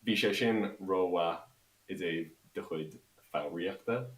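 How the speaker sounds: slow Irish with an American accent. Shown as a demonstration. Replying to Kev's co-host in Irish, American accent. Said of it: "speak Irish with an American accent".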